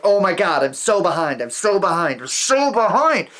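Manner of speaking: hammed-up stressed writer spiralling; panicky freakout. Writer mocking a panicked self, mock panic. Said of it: "being like".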